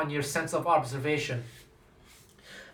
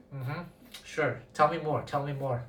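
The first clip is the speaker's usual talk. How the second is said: sceptical humouring; 2 semitones lower, 6 dB quieter than usual. Retold or imitated. Interviewer humouring players' claims about technique, sceptical. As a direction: feign interest while quietly doubting.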